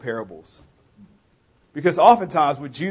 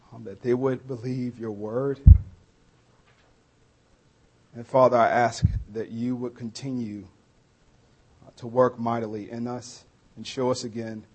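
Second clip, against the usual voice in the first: opening prayer; 3 semitones lower than usual. Real, not acted. Preacher praying for his people before the sermon, hushed prayer.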